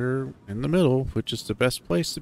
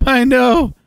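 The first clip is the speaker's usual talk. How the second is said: loud, high, giddy shouting; wild high shout, drawing out the last words; exhilarated yelling; 12 dB louder than usual. Acted. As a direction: holler it in breathless post-ride excitement. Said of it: "two laughing, panting hyenas step out".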